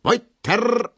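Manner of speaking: very high, loud shout; call out. Acted. Dance master shouting to the dancers. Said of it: "ruft der Tanzmeister".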